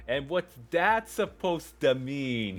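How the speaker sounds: mild yell. Acted. Joey yells at Taylor, half-hearted and confused. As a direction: yell it out in confusion, not too hard. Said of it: "he yelled".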